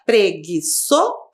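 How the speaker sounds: "Preguiçoso" slowly broken into pre, gui, ço, so; syllable separation. Shown as a demonstration. Teacher separating syllables for pupils, slow syllable by syllable. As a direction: sound out "Preguiçoso" piece by piece. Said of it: "a gente faz a separação de sílabas".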